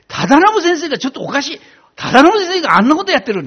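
high, excited whispery gossip voice; gossiping teachers. Retold or imitated. Teachers telling each other about him, high and excited. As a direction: gasp it out like scandalized teachers. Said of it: "なんて言ってですね".

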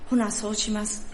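put-on old woman agreeing in light Kansai dialect; a meek Kansai nod in words; Kansai accent. Old woman agreeing with her pastor, in a Kansai accent. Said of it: "ちょっとここから関西弁になりますので".

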